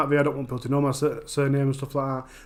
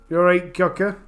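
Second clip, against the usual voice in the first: broad Barnsley greeting; Barnsley accent; 3 semitones higher than usual. Shown as a demonstration. Streamer showing off a great Barnsley accent, broad greeting. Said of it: "do a great Barnsley accent".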